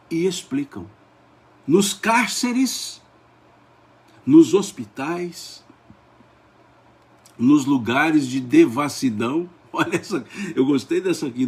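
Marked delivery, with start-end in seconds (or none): 1.7-9.5 slow, drawn-out list read aloud; leitura solene. Real, not acted. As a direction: let each place hang in the air. Slow solemn reading aloud. (leitura solene, pausada e suspensa)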